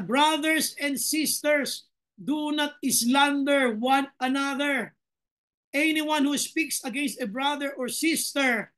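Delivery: slow, measured Bible reading; solemn verse read to the congregation; scripture reading. Acted. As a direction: read each word of the verse deliberately.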